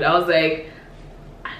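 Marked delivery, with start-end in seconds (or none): 1.5-1.5 retold awkwardness. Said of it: "it was, like, super awkward".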